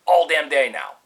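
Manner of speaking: exasperated griping, moderately heated; mildly angry retold complaint; retold pissed-off rant. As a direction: act out fed-up impatience, punching some words. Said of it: "I'm getting pissed off".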